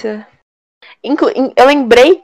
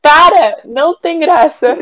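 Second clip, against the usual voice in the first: embarrassed protest; 6 semitones higher, slower than usual. Real, not acted.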